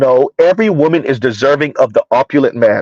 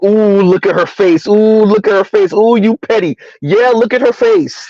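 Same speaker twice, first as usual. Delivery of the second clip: delighted, teasing cry, a bit higher; teasing ooh; 4 semitones higher than usual. Retold or imitated. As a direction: gleefully point out her face. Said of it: "Preach was like".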